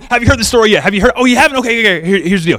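eager, rushing to tell the news; breathless eager gossip; excited shepherd. Retold or imitated. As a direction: grab a stranger and spill it excitedly. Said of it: "They're grabbing people going".

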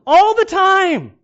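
high, loud, slow laughing admission; laughing confession. Real, not acted. Pastor admits his own phone use to the church, laughing. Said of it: "how often I use my cell phone".

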